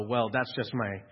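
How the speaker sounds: mock the martyr; mock complaining. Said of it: "You'll hear people go".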